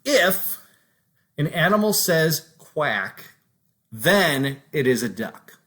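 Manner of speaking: slow, deliberate reading of "If an animal says quack, then it is a duck"; slow example read. Shown as a demonstration. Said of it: "an example of a conditional statement would be something like".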